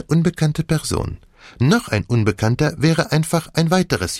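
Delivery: put-on French-accented detective, measured revelation; Poirot. Detective explains his list of suspects, French accent. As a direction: unfold the case with dramatic emphasis.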